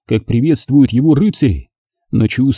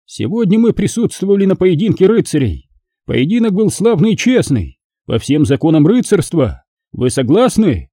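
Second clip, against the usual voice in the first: high-pitched ceremonial declamation; solemn magister's oration; 6 semitones higher than usual. Acted. Magister honouring a fair duel before the knights, solemn oratory. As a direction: address the hall grandly, each phrase proclaimed.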